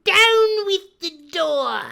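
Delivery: high, loud, slow rallying cry. Acted. Blind beggar urging his men at the door, high shout. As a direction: bellow the order to break in. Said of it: "he cried".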